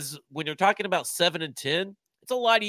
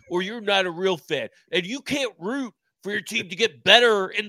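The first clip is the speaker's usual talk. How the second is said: hammed-up wrestler-meets-redneck voice, higher and louder; wrestling redneck; 4 semitones higher, 4 dB louder than usual. Mocking gatekeeping fans to the co-host, wrestling redneck voice. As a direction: rant like a redneck wrestling promo. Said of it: "Is that a wrestling voice? What was that voice?".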